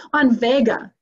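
a hint of an excited shaman; lightly voiced shaman. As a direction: play up the shaman bragging about his honeymoon. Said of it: "He goes".

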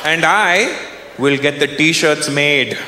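put-on Indian voice, long deliberate pauses; Indian negotiator. Raj proposes a deal to owner, deliberate Indian negotiator. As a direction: play a calmly scheming Indian businessman. Acted Indian worker bargains back.

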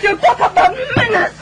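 crying shout at her husband; tearful shout. Acted. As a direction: let it break out of her in tears. Wife's outburst peaks, crying.

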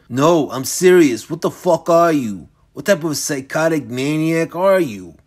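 appalled, emphatic challenge, stretched opening; appalled demand. Acted. Michael confronting a deranged old man, appalled demand. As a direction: demand it in mounting disbelief.

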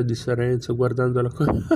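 ordinary delivery, nothing marked

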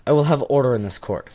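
hammed-up courtroom judge; stern judge. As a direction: demand order from the bench. Judge calling court to order.

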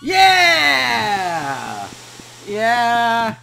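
loud, high mock cheer. Real, not acted. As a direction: cheer with hollow triumph. Mock celebration of win.

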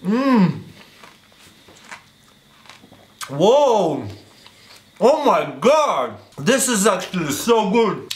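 chewing fruit while talking; talking between juicy bites; mouth full. Real, not acted. Seen 0: Bites fruit at -3; chews with full mouth throughout the labelled words.

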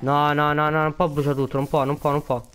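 frantic it can't burn everything; dismayed protest. Real, not acted. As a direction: refuse to accept the loss. Despair over losing everything.

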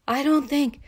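put-on winded, panicky child; gasping for air. A narrator's reading. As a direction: puff it out between gasps. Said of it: "in between gasps of air".

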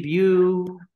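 "بيو" held high and loud; single syllable demo. Shown as a demonstration. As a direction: sound out "بيو" as one separate beat. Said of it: "هو بيو ده مقطع".

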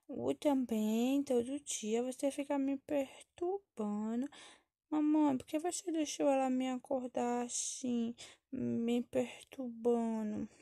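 put-on slow, drawn-out complaining child; whiny child. Woken child complains to mother about her sister, whiny. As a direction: drag the words out like a pestered kid.

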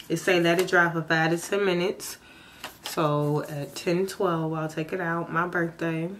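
whitening strips still on; speaking around whitening strips; with whitening tray. Real, not acted. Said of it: "I have my whitening strips on".

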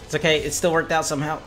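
usual speaking voice

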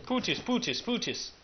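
"putis" squeaked high, words run together; mispronounced "put this". Retold or imitated. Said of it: "that's how he says it".

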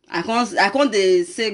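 ordinary talk

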